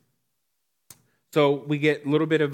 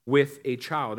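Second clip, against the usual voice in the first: gentle God; slower than usual. Retold or imitated. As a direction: calmly reassure him. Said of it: "But God says".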